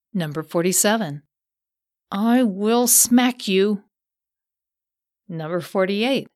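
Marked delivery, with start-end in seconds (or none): 2.1-3.8 cold belittling sneer. Retold or imitated. Voicing a threatening mother.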